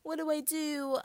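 high mock boo-hoo whine; hammed-up fake sobbing; fake crying. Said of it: "So Whitley cries to her man".

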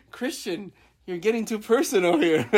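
laughing through a mock scold. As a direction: tease while giggling. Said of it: "I was like".

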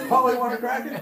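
laughing parrot impression. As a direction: chirp it like a pet parrot. Mocking believers as parrots.

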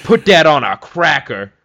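loud Cajun catchphrase delivery; lightly imitated Cajun cook; imitating Cajun YouTuber. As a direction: punch it out like a Cajun cook's catchphrase. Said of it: "and he's like".

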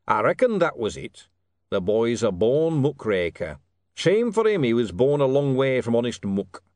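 loud, weighty verdict; approving king. Acted. King sums up the boy after the paper, approving. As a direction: pronounce judgement with relish.

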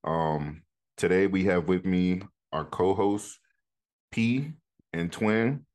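upbeat host opening the show; podcast intro. Acted. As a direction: welcome listeners like a host.

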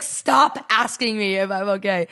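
slowed-down mock exasperation; retold anger. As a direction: imitate a fed-up sick boyfriend. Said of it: "He was getting so mad".

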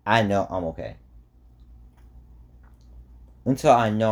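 talking while chewing gum; words around a wad of gum. Real, not acted. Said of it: "Sorry, I'm chewing gum".

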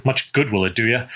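dry, sarcastic "Much good will it do ya?" with a lift at the end. Shown as a demonstration. Reading Court's line to the boy with sarcasm. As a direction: sneer the line as a mocking send-off. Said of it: "a little bit of Court's usual sarcasm".

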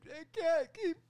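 very high, loud cartoon shout; Breaking Bad line. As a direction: yell it like a cartoon teen. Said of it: "he's, like, Breaking Bad".

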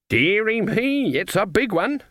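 slow, high, marvelling granny; cooing old lady. A narrator's reading. Granny admires the axe, slow and high.

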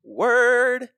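high, loud hype shout. Acted. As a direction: bark it out with swagger.

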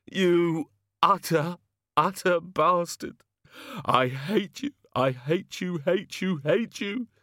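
slow, high, furious outburst; furious yelling. Acted. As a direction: rage and pound each word. Hungover god beating Ridcully.

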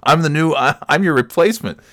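mock-cocky trash talk; firing back. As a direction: give it right back, swaggering. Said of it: "giving it right back to him".

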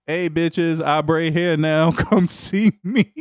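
lightly voiced woman, slow; a hint of a girly voice, drawn out; man doing a woman's voice. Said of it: "my girl voice is horrible".

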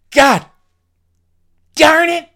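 high, loud fake outrage; mock curse. Mocking himself for the listener Carl, loud high fake cursing. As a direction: squeal it like a cleaned-up swear.

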